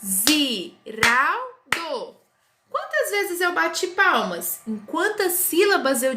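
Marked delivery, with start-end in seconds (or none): 0.0-1.5 Ziraldo spoken very slowly, syllable by syllable; syllables clapped. Shown as a demonstration. Teacher claps Ziraldo so pupils count syllables. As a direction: clap out Ziraldo one syllable at a time. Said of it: "eu falei pausadamente".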